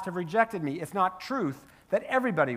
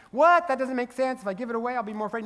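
incredulous objection; 5 semitones higher, faster than usual. Acted. Doubter objects to giving money away, incredulous. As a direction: play a baffled doubter, pitched up.

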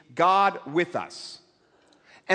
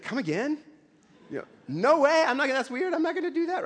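higher, laughing protest; laughing refusal; 8 semitones higher, faster than usual. Retold or imitated. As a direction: laugh off the nudge in disbelief. Nick refusing God's nudge.

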